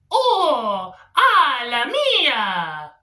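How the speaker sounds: lightly voiced Italian Mario cry; a quick stab at Mario's voice; Mario imitation. Comic imagining his Muslim friend as Mario, lightly voiced Italian cry. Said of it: "Sometimes I think he says".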